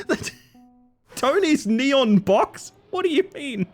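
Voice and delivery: mock disbelief. Reacting to Tony's build.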